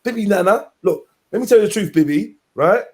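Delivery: lightly voiced rambling street talker; a hint of Tommy pleading; Tommy Robinson impression. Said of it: "my Tommy impression".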